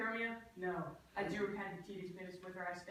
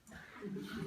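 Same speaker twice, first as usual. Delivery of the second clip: high giggle; 12 semitones higher than usual. Acted. Laugh with no words.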